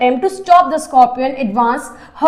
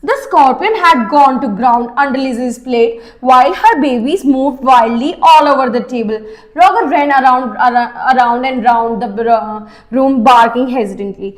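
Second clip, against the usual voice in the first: slow, careful reading of the English passage; story reading; 3 semitones lower, much slower than usual. A narrator's reading. Teacher reads the story slowly to her students. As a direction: read the book aloud slowly to the class.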